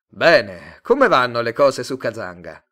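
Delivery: loud, hearty salesman greeting; salesman Tate. Acted. Tate to Simon on arrival, loud hearty salesman. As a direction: boom a welcome like a smooth dealer.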